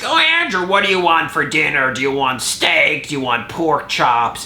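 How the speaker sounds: high mock mom voice on "Andrew"; lightly voiced fussy mother; mother calling. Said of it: "my mother calling me to ask".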